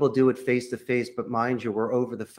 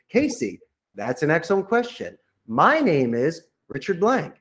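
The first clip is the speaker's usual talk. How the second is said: positive tone; 5 semitones higher than usual. Shown as a demonstration. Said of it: "Said your name in a positive tone".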